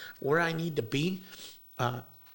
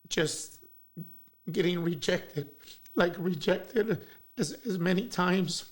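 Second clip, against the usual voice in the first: choking up; 3 semitones higher, 3 dB louder, slower than usual. Real, not acted. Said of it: "Got some tissue or something?".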